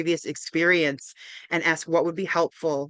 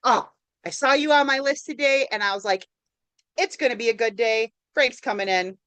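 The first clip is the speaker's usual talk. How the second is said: glad welcome; 4 semitones higher than usual. Shown as a demonstration. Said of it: "thanking them for coming in".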